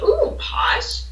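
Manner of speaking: high, airy mock-posh "Ooh, posh"; playful high posh exclamation. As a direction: put on a fancy voice for the word posh. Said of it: "one of us will look at the other and be like".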